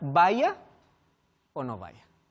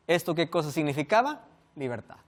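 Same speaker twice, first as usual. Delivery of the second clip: ordinary talk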